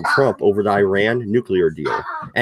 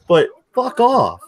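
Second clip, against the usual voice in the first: laughing; 8 semitones higher, 3 dB louder than usual. Real, not acted. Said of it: "laughing after apology".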